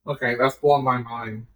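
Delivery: mic cutting out; words dropping out mid-phrase; choppy cut off endings. Real, not acted. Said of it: "your mic keeps cutting out when you talk".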